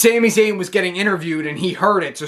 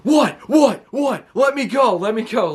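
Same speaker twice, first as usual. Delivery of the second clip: mock scream; 5 semitones higher than usual. Rhea screaming at Dom to let her go, hammed-up high yell. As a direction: shriek it like an angry wife, mock version. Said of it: "screaming at Dom".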